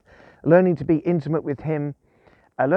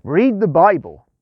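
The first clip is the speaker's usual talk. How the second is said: slow, firm and louder, a mock-stern command; 2 semitones higher, 7 dB louder, slower than usual. God telling Chris to open his Bible, mock-stern and firm. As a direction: lay down the order like a gently stern father. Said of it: "There was this tone in his voice like that".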